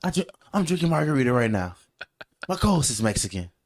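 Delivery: high, excited mock protest; indignant protest. Real, not acted. Co-host denying he hates Mexicans, high excited protest. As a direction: jump up high and protest in jest.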